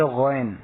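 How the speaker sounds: "غین" with a voiced gh from the throat; throaty ghain. Shown as a demonstration. Teacher showing learners the throat sound, throaty "غین". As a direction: open "غین" on a throat gh, rounded after it. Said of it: "وہ حلق میں سے".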